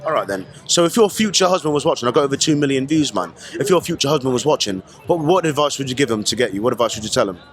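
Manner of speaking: put-on London accent, a bit cheeky; British accent put on by an American; fake London accent. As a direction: play a Londoner doing a street interview. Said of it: "I do the accent 'cause it's a fun thing to do".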